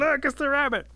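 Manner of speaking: high, loud cry of discovery; storybook crowd's shrill scream. A narrator's reading. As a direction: shriek the alarm to everyone. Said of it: "everybody starts screaming".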